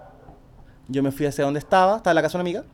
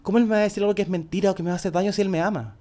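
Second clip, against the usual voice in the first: naive self; 5 semitones higher, faster than usual. Retold or imitated. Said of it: "mi prerrogativa era".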